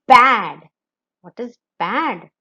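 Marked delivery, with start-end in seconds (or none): 0.1-0.7 blending the word. Shown as a demonstration. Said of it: "and say the word".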